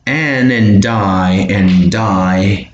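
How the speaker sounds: "Ann and Di" slowed, the D flowing into the vowel; linked sounds. Shown as a demonstration. Teacher drilling linking for learners, slow connected pronunciation. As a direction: draw out "and Di" as joined sounds. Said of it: "connect that".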